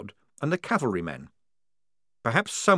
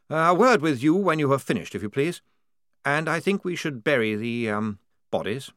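higher, polite and flustered; fussy young officer; 5 semitones higher than usual. Acted. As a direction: wave off formality. Blouse voiced.

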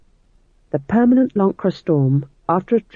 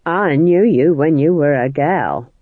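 sullen; 4 dB louder, slower than usual. Acted. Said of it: "said Nanny sullenly".

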